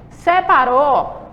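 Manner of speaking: se-pa-rou drawn out slowly, syllable by syllable; slow syllable split. Shown as a demonstration. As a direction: stretch "Separou" into slow separate beats. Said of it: "em sílabas diferentes".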